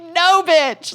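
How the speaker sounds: high, loud mock-outraged rebuttal; retold scornful disbelief. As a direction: blurt it out, calling the bluff. Acts out scornful inner reply.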